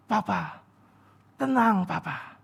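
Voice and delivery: soft, soothing reassurance; calm her husband down gently; calm wife. Retold or imitated. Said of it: "Dia dengan tenang, dengan damai". (istri menenangkan suaminya dengan lembut)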